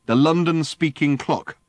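high, loud, manic friend; a wired alien, high and loud; excitable Ford. Acted. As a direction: bark orders in a giddy frenzy. Ford's voice held in story.

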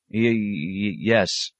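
timid, stammered yes; faltering novice, tripping on the first sound; nervous stammer. Acted. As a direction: stutter out a hesitant answer. Frightened novice answering abbot.

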